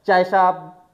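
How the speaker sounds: loud short call of a chaiwala at the window; tea vendor call. Shown as a demonstration. Teacher imitates vendor at the train window calling loudly. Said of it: "आएगा".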